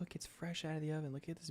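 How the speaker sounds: hushed whisper. Real, not acted. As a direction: keep it to a whisper. Whispering while sister is near.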